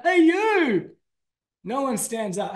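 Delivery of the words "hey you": high, loud hail across a crowd; loud generic call that nobody answers; yelling out. Shown as a demonstration. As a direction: shout "Hey, you" to nobody in particular. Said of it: "If I yell out".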